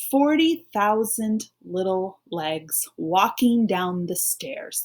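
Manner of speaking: slow, even read-along pace. Shown as a demonstration. Teacher reading along with pupils, slow and even. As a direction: read slowly so they can follow. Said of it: "So read it with me in your head or out loud".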